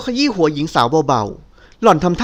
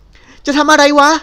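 much higher, loud and slow; angry demand; 9 semitones higher, 4 dB louder, much slower than usual. Acted. Nilda, locked in his arms, demands slow and loud. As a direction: drag the rough question out in outrage. Trapped woman demands answer.

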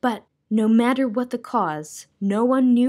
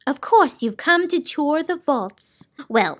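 high, dreamy lady savouring silence; enchanted, lilting high old lady; Soundkeeper voice; 7 semitones higher than usual. Acted.

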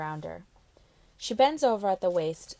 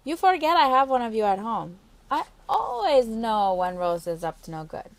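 knowing Carla; 3 semitones higher, 5 dB louder than usual. Acted. Carla scolding the girl she sees through, louder. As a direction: catch her out playfully.

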